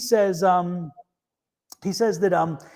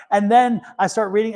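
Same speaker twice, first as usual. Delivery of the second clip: laughing; 3 semitones higher, 4 dB louder than usual. Real, not acted. Host laughing at the husband's surprise. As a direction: laugh through the words.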